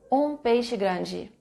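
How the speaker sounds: "Um peixe grande" drawn out word by word; slow dictation. Shown as a demonstration. Teacher repeating the phrase for students, very slow. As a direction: read it out slowly for the students. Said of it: "Como é que é isso em inglês".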